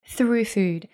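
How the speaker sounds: measured, scripted podcast ad delivery; sponsor ad read. Acted. Host recommends a supplement stockist to podcast listeners, scripted ad read. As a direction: read the sponsor message evenly, phrase by phrase.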